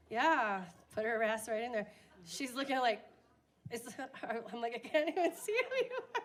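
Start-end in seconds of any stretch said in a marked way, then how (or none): 4.7-6.2 fast, much higher put-on voice with a laugh; mock frail voice. Teasing mom in assisted living, high and fast. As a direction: play a confused old lady.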